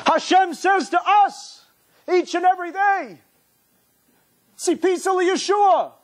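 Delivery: high, slow, intoned call; fervent preaching. Real, not acted. Rabbi proclaiming to his listeners, high and fervent. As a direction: proclaim it slowly to the congregation.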